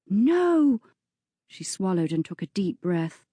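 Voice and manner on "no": high, loud cry of no; girl rejecting the viscount's offer; sharp refusal. Acted. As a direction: refuse him outright.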